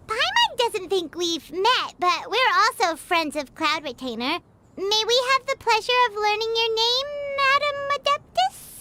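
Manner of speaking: prim, formal, slowed opening; overly polite. Acted. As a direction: put on your best manners after a throat clear.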